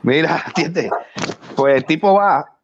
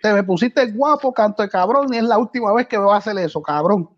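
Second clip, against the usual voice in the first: mock crying man; 8 semitones higher than usual. Crying arrested man pleads with the policeman, high whimper. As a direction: whine it like a man fake-sobbing. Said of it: "otra escena llorando".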